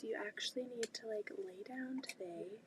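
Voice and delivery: put-on hushed whisper to the kids. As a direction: whisper it firmly so the kids stay asleep. Telling the kids to nap.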